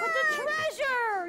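high, slow, loud wail; captain's yell. Acted. Captain refusing to leave the treasure, loud wail. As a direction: wail it over the storm. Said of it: "yelled Braidbeard".

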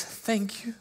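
breathless whispered thank you; whispered gratitude to God. Retold or imitated.

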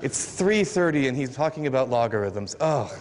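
low, mock-weary audience member; imitated dismayed groan. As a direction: lightly groan as a listener dreading the maths. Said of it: "that moment that makes you go".

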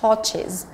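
"torches" said as torch-is; slow, clear "torches" ending in "is". Shown as a demonstration. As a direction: model "torches" with a clear "is" syllable at the end. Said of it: "cũng là is".

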